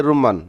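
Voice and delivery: রুম্মান with a doubled, held mm; correct pronunciation. Shown as a demonstration. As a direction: hold the m in রুম্মান. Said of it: "সঠিক উচ্চারণ হচ্ছে রুম্মান".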